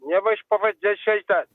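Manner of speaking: voice-changer sound; strange, processed-sounding voice; odd altered voice. Real, not acted. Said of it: "Why your voice is like that?".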